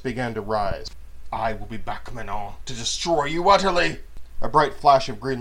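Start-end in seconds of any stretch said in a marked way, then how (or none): 1.3-4.0 furious vow. Acted. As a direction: build into a furious threat. Vow of revenge.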